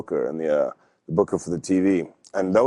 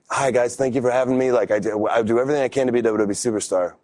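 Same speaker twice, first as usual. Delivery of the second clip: mock eager newcomer; 4 semitones higher than usual. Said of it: "be like".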